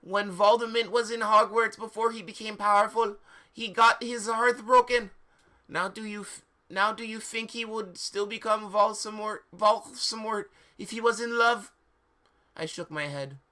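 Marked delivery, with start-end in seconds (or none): 0.0-11.7 higher, louder hammed-up professor; cheesy oracle voice; mock seer voice. Professor voiced high throughout.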